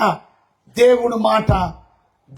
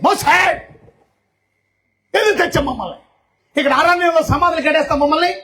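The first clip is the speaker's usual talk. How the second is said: accusing cry; 5 semitones higher than usual. Acted. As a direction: cry out blaming the leader. People accuse Moses.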